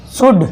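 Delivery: शुड with the l left silent; teacher's example word शुड, no l sound; silent-l pronunciation. Shown as a demonstration. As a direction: say शुड straight from vowel to d. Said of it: "एल silent".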